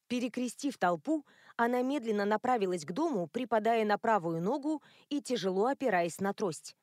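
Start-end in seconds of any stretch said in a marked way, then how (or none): none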